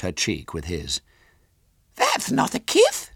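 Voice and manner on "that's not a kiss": put-on very high little girl voice; squeaky small child, louder; Violet Elizabeth. A narrator's reading. Small girl questions her visitor, high and childish. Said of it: "said Violet Elizabeth".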